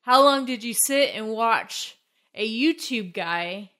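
slightly winded, slow words; talking while short of breath. Real, not acted. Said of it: "Are you out of breath over there?".

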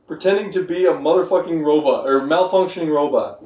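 halting robot voice reading a card. Acted. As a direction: read it like a malfunctioning robot. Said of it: "It works".

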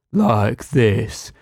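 slow, droning mock of a glum co-host; mock mopey voice. Mocking co-host's old dreary way of talking, slow and droning. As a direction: drag it out like nothing matters. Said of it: "instead of talking like this".

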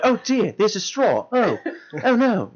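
accent slipping into British. Shown as a demonstration. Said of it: "before it starts going like".

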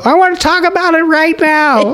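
very high-pitched eager demand; mock insistence. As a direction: demand it like an overexcited latecomer. Acting Gaffigan's joke, insistent latecomer.

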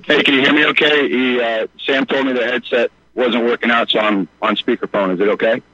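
buzzy speakerphone line; talking over a speakerphone. Real, not acted. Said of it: "you're a little bit buzzy".

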